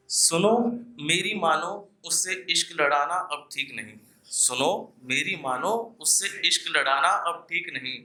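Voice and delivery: earnest poetic recital, repeating each line for effect; ghazal recitation. Acted. Poet warning listeners in verse, earnest recital. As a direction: plead gently with the crowd through the verse.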